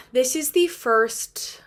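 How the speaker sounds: slow choked whisper. Real, not acted. Fan recalling the lost duet, choked whisper. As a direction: voice catching on the words. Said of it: "I get choked up about it".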